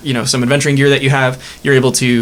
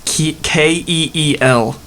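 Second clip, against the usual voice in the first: slow spelling out; slower than usual. Shown as a demonstration. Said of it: "I'll spell that".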